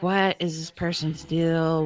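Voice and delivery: ordinary talk, nothing marked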